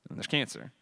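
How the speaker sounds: stark contrast. Real, not acted. Alternating contrast of photos.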